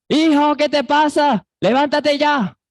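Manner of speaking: mother yelling at a sleeping son to get up; parent scolding. Retold or imitated. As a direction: rouse the lazy son, scolding. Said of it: "Seguro de este tono, de esta voz".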